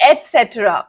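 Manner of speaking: slow "et cetera", said et-setra; correct pronunciation. Shown as a demonstration. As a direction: give "et cetera" a clear T: et-SET-ra. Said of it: "so the answer is".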